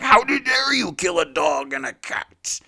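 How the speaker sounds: slow whispered shout of outrage; stage-whisper a fake furious yell; hammed-up outrage, whispered; mock outraged yell. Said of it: "sit on this podcast and yell".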